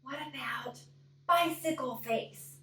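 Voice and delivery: hushed warning to his sister. Acted. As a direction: drop to a hushed, secretive tone. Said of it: "Joe lowered his voice".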